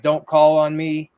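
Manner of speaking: mock ghost voice. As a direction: drag it out like a grumpy spirit. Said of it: "saying something pretty negative".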